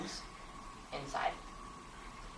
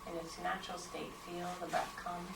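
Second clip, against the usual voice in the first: unhurried guidance with long pauses, growing softer; guided meditation; 4 dB quieter than usual. Acted. Teacher guiding students into posture and breath, guided meditation. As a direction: settle them gently into stillness, leaving space between instructions.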